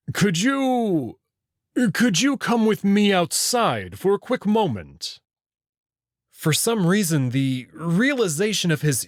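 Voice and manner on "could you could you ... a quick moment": higher, gently pleading beast; coaxing wolf creature. Acted. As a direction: ask nicely, trying to seem harmless. Wolf coaxes frightened Marco.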